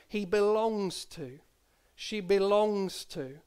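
slow, drawn-out BELONGS; granny's quaint phrase. Retold or imitated. Grandchild recalling granny's expression, slowly stretching BELONGS. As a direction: stretch BELONGS fondly before "to". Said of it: "she just had this lovely, quaint expression".

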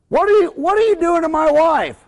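high, hammed-up outraged husband; imitated angry confrontation. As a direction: act out a jealous old man's accusation. Acted angry husband confronts dentist.

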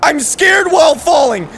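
mock panic building to a shout; hammed-up terrified yelling while falling; scared. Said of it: "I'm falling and I'm scared".

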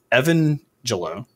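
Evangelo sounded out slowly as EV-un-jel-oh; unsure pronunciation. Real, not acted. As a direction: feel your way slowly through Evangelo. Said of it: "I don't know".

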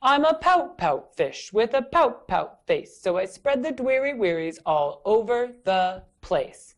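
a hint of a pouty fish; gloomy fish. Fish answering his friend, lightly pouty. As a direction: pout the refrain out. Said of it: "Can you make a face like that".

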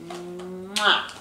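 a soft kiss sound on a bump; kissing it better. Acted. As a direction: give a gentle kissing noise. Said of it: "Do you want me to kiss it better?".

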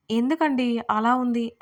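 slow, wide-eyed innocent question; girl asking Arjun with mock innocence; innocently. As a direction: play dumb sweetly and slowly. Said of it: "అని అమాయకంగా అడిగింది ఆమె".

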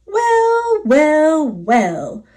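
chirping bird. Acted. Zinazoo bird admiring the antlers, chirpy and falling. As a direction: chirp it out, bright then settling. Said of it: "he chirped".

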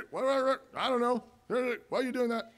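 high-pitched, muted squabble imitation; mock bickering. Preacher mimics couple squabbling before guests, high mock bickering.

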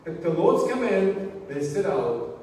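measured, emphatic scripture reading. Acted. Preacher reading the cloud passage to the congregation, emphatic scripture reading. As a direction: read it out phrase by phrase to the congregation.

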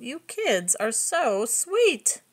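slow, tender thanks; a slow, contented, grateful sigh of a line; sighing, smiling mom. Acted. Pampered mom thanks her kids, slow and tender. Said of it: "Mom sighed and smiled".

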